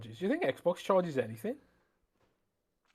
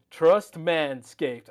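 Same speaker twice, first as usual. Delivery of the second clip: put-on American accent; 3 dB louder, much slower than usual. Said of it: "let's use your American accent here".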